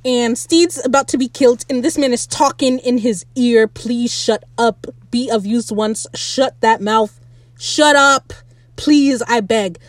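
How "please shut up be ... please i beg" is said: slow, fed-up begging; exasperated plea. Pretend. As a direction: drag each plea out, sick of him. Begging annoying character to stop.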